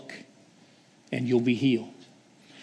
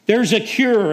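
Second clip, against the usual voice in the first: even louder and higher, the call pushed further; louder joyful shout; 5 semitones higher, 3 dB louder than usual. Acted. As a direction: call it out again with more force. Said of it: "and he's shouting".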